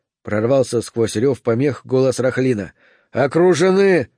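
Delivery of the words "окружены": shout. A narrator's reading. Soldier yelling over gunfire.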